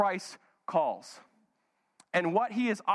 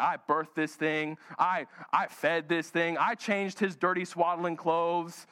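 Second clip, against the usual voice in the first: mock scolding Mary; 3 semitones lower, slower than usual. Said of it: "I can hear Mary right now".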